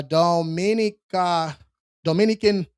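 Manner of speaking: drawn-out accented Dominica; slow, playful accent on the name; put-on accent. Real, not acted. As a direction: lay an accent on Dominica, slowly. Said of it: "put the accent on there".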